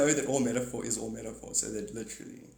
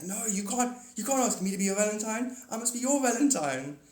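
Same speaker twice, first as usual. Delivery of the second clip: higher, mock-earnest husband insisting; imitating the husband; 8 semitones higher than usual. Husband to his wife on Valentine's Day, mock-earnest and higher. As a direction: play the sweet husband pleading, pitched up. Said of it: "he's like".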